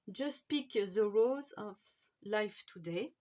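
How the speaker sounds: slow English title in a French accent; English read slowly with a French accent. Real, not acted. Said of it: "Désolée pour, euh, mon anglais".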